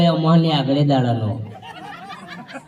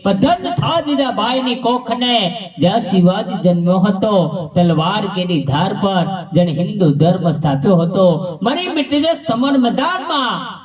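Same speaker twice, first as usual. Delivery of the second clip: verse declamation; 2 semitones higher than usual. Acted. Performer reciting a heroic verse to the audience, declaimed.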